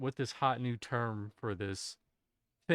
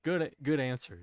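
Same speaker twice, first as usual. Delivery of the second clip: game show host. Pretend. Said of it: "sitting here in the Family Feud".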